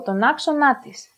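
"άξονά της" stressed on ά and νά; "της" unstressed after stressed νά; double stress. Shown as a demonstration. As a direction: join "άξονά της" like one word, two stresses. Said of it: "stressing the two accented syllables".

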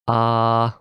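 "A." as an open ah, mouth wide; vowel demo. Shown as a demonstration. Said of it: "and say with me".

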